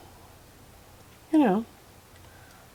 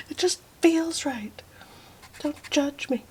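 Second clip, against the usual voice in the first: laughing; 9 semitones higher, 8 dB louder than usual. Real, not acted. Laughing off her whispering.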